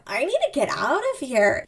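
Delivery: contained, embarrassed urge to flee; play-acted inner panic, not shouted; acted urgent self-talk. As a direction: say it as if to yourself. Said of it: "She says that out loud".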